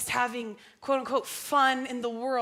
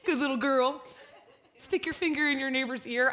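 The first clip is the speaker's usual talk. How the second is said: laughing impression; 3 semitones higher than usual. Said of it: "He says weird things like that".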